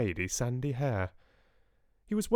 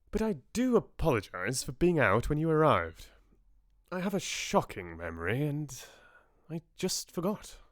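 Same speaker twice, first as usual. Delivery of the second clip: English gentleman; 4 semitones higher than usual. Acted. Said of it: "the most English voice".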